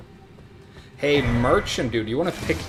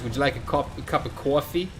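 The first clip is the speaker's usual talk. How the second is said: put-on New York accent. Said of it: "He goes".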